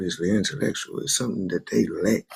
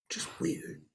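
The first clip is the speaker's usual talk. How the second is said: whispered aside; 11 dB quieter than usual. Real, not acted. Muttered closing aside.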